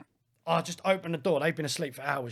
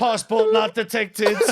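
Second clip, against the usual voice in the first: slow, mechanical scanner voice, louder; robot voice; 5 semitones higher, 6 dB louder, slower than usual. Retold or imitated. Describing the guard scanning for a passport, slow robotic voice. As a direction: drone it like a machine scanning.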